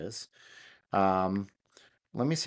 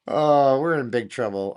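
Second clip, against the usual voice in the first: excited; 5 semitones higher, 10 dB louder than usual. Real, not acted. Amazed by the cloned voice.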